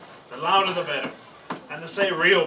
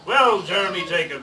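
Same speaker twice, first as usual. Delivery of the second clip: pirate greeting; 5 dB louder than usual. Acted. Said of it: "he said".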